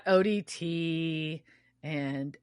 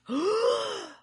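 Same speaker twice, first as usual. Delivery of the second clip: high sharp gasp of outrage; offended gasp; 11 semitones higher than usual. Real, not acted. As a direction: gasp as if personally insulted. Outraged at Dean's remark.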